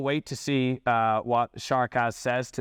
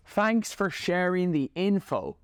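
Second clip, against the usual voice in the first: mock polite reply; 6 semitones higher, slower than usual. Mocking the reviewer's reply.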